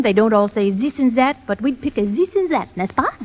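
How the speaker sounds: stage Frenchman's accent; French accent. Shown as a demonstration. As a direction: put on a typical French accent. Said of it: "if we're going to do a Frenchman".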